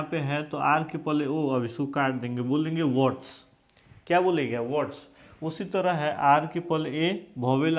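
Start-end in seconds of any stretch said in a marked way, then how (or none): 2.8-3.5 वर्ड्स with no R, like "wawts"; silent R. Shown as a demonstration. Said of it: "आर को नहीं पढ़ना है". 4.6-5.1 वर्ड्स as "wawts", R silent. Shown as a demonstration. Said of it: "आर को नहीं पढ़ना है".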